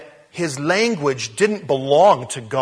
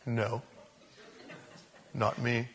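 1 nervous denial; 6 semitones lower, 14 dB quieter, slower than usual. Retold or imitated. Peter denying in low voice.

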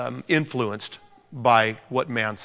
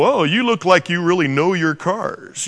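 a hint of salesman flattery; butter up the customer, mildly hammed-up; lightly voiced car salesman; 3 semitones higher, 3 dB louder than usual. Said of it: "used car salesmen".

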